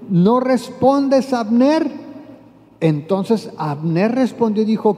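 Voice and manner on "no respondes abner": mock shout across the valley, higher and slow; calling out. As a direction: call out to the general from the hilltop, drawn out. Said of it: "comienza a gritar".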